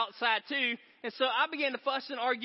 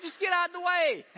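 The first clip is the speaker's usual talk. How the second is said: much higher, louder exasperated yell; mock road rage; 10 semitones higher, 5 dB louder than usual. Driver yelling at a car blocking the lane, loud and higher.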